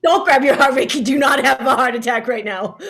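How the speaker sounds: loud, urgent plea; half-laughing, loud alarm; alarmed pleading. Acted. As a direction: raise your voice in affectionate panic. Friend panics at feared heart attack.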